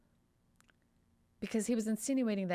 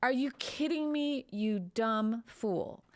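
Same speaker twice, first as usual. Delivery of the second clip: indignant outburst; 2 semitones higher than usual. Retold or imitated. Voicing the doctor's feelings to the lawyer, indignant. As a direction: play the doctor's anger at the stupid question. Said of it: "I'll, I'll do this part".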